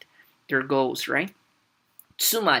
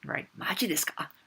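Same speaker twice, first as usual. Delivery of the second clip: casual disbelief; 4 dB quieter than usual. Shown as a demonstration. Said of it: "another way you could say".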